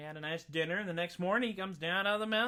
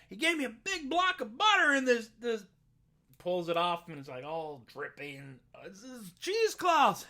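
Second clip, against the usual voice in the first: simple Jack; 3 semitones higher, 5 dB louder than usual. Acted. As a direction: protest it like a guileless boy caught out. Jack's voice in told tale.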